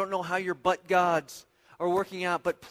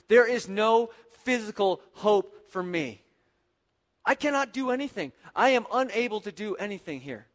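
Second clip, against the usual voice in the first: emphatic, slightly raised desperate cry; mild mock scream; 2 semitones higher than usual. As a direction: cry out clearly without a full shout. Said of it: "he is screaming very loud and clear".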